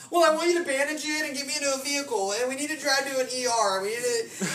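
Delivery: high, mock-frantic inner voice; voice of anxious thoughts. Injured man's thoughts demand a hospital, high anxious voice. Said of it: "that's what it sounded like to me, those thoughts".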